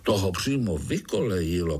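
usual speaking voice

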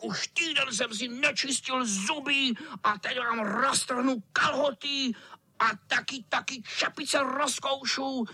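high gloating cat villain; threatening cat. A narrator's reading. Cat threatens to chew the boys' caps. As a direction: threaten them with relish. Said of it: "vyhrožoval kocour".

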